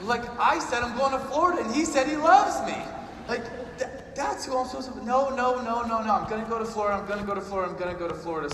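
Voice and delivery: high, loud comic wail easing down; hammed-up tearful protest, fading as it repeats; mock distraught outburst. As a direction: plead frantically, then talk yourself back down. Tearful wavering, retold for laughs.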